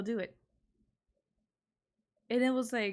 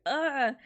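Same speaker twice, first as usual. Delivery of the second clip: exasperated ugh; 5 semitones higher, 4 dB louder than usual. Retold or imitated. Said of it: "I'm just like".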